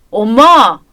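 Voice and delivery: appalled son calling out to stop her; shocked protest. Acted. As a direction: cut her off with a sharp exclamation. Son protests at mother's cruel remark.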